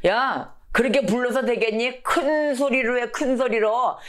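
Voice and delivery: high-pitched taunting heckle; mocking. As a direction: egg them on with mock advice. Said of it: "옆에서 엘리야가 조롱했습니다".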